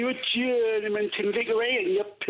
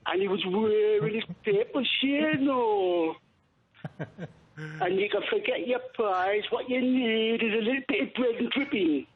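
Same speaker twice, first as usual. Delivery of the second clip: mock Geordie. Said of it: "carry on in that accent".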